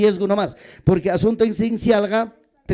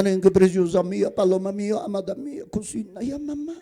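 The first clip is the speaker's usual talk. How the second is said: a touch of tender pleading to his wife; sweet-talking husband; 2 semitones lower, 6 dB quieter than usual. Retold or imitated. (esposo hablando con ternura)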